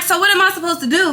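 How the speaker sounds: irritated outburst. Retold or imitated. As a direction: fire it off fed up and rattled. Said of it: "I'm irritated as hell".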